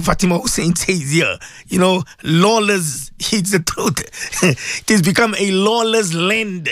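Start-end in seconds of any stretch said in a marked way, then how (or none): 1.7-6.7 slow words broken by rueful laughs; bitter laughter. Real, not acted.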